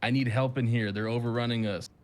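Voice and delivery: lightly gruff orc calling for help; a hint of a gruff orc, urgent. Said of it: "In a gruff orc voice".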